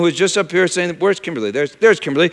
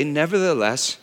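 quiet surrendering prayer; 6 semitones lower, 6 dB quieter, slower than usual. Retold or imitated. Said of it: "Jesus did pray".

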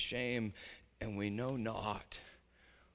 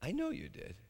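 gentle grandma; 5 semitones higher, 6 dB quieter than usual. Retold or imitated. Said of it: "She looked at him and she said".

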